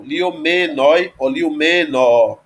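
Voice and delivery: liomenoi and liomeno both stressed on me. Shown as a demonstration. Teacher showing the dative's two forms, liomenoi stressed on me. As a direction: push the accent onto me in liomenoi, liomeno. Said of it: "vai puxar o acento para o me".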